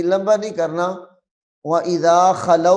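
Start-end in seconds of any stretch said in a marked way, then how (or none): 1.7-2.8 fast, rushed Quran recitation of व इज़ा खलौ; wrong rushed reading. Shown as a demonstration. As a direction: rattle off व इज़ा खलौ too quickly, the wrong way. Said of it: "ऐसे नहीं पढ़ना".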